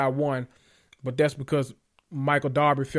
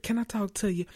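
put-on baby doll voice; 5 semitones higher, 6 dB quieter than usual. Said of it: "that little baby doll voice".

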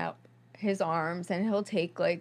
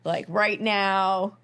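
louder, half-hammed panic, slowing at the end; mock panicked demand; 5 dB louder than usual. Mom in labor demanding her own doctor, mock panicked and loud. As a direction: imitate mom in labor losing it a bit. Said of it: "She starts freaking out".

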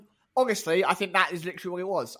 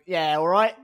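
put-on London accent, louder; casual Cockney reply; Toto, London accent; 5 dB louder than usual. Team boss answering Claire, put-on London accent. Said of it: "change his accent from Austrian".

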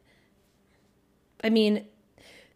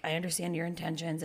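quiet, lower mock-soothing quote; kind; 4 semitones lower, 9 dB quieter than usual. Retelling partner's apology in a quiet, kind voice. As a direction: soften and lower it, imitating kindness. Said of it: "very kind and saying".

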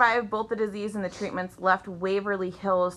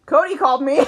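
laughing surprise; 8 semitones higher, 8 dB louder, faster than usual. Real, not acted. Laughing again.

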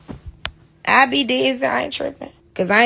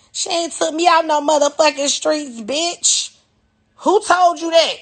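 indignant; 5 semitones higher, slower than usual. Real, not acted. Denying the rumor.

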